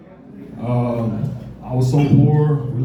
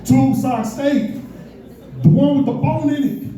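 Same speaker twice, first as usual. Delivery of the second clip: mock exasperation climbing higher; frustrated; 4 semitones higher than usual. Stoned teenager arguing with waitress over steak, frustrated. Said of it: "I started getting frustrated".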